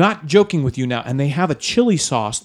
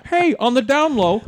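out of mouth corner; 8 semitones higher than usual. Shown as a demonstration. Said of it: "you were talking like this".

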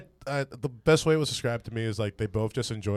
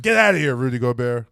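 mock French accent; 7 dB louder than usual. Mocking Gobert.

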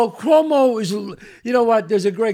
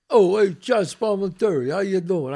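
put-on New York Italian accent; 3 semitones lower than usual. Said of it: "They'll walk by me".

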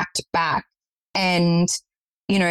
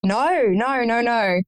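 higher, drawn-out mock protest of no; re-enacted pleading no; retold refusal; 4 semitones higher, slower than usual. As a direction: act out refusing, voice lifting and sliding down. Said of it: "I was like".

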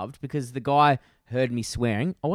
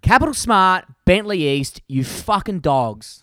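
parting shot; 3 semitones higher, 6 dB louder, slower than usual. Real, not acted. Ending his rant to Nick with a loud insult. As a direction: bark out the final insult. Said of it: "rant over".

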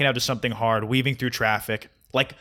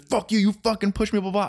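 angry British man; 9 semitones higher than usual. Retold or imitated. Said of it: "he was like".

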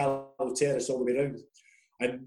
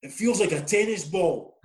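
mild mock shout, pitched higher; raised, higher-pitched retold call; 5 semitones higher than usual. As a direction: imitate a wee laddie calling up to the fans. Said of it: "he shouted up to the top".

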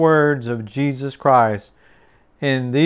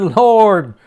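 higher and louder, wholehearted; eager all-in Peter; 5 semitones higher, 4 dB louder, slower than usual. Acted. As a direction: throw everything in, overflowing zeal. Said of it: "He said".

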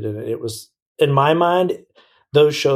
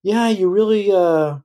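mock European critic; 7 semitones higher than usual. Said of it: "They're kinda like".

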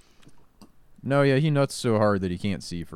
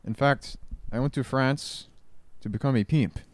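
mock Spaniard-style foreign accent; lightly faked foreign accent; fake French accent; 3 semitones lower than usual. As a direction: put on a hammy fake European accent. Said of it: "that was a fake accent".

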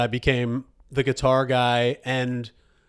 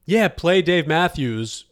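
excited woman; 4 semitones higher, slower than usual. Retold or imitated. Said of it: "exclaims woman number one".

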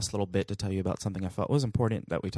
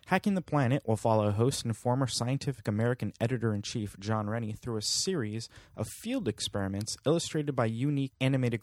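steady, even announcer read; press release read. Acted. Host reading the Weather Channel press release, announcer style. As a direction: read it like a TV promo.

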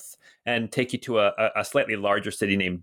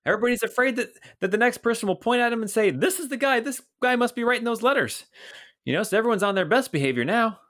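put-on high, hearty old watchman greeting a friend; jolly older guard voice, pitched up; Bert the old guard; 7 semitones higher than usual. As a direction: boom out a cheery hello as a portly guard. Bert talks of the barracks.

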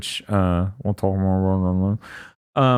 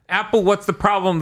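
mock exasperated question; 10 semitones higher than usual. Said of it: "I'm like".

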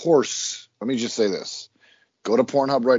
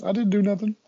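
high, put-on innocent whine; mock innocent whine; 9 semitones higher than usual. Joking to Jake, a mock innocent high whine. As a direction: play the wrongly accused child.

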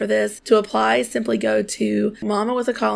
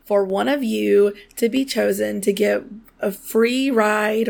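hoarse, croaky voice from sinus trouble; frog in my throat. Real, not acted. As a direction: talk through a frog in the throat. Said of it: "I sound like I have a frog in my throat".

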